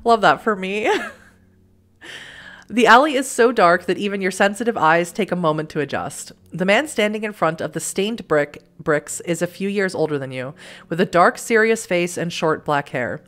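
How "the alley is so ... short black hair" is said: measured storybook narrator; story narration. A narrator's reading. Narrator reading the dark alley scene to the player, measured narration. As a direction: read it like an unhurried audiobook. Reads game narration aloud.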